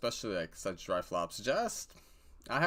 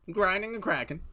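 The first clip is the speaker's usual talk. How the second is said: higher, louder hyped repeat; 11 semitones higher, 5 dB louder than usual. Real, not acted. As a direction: punch it up the second time.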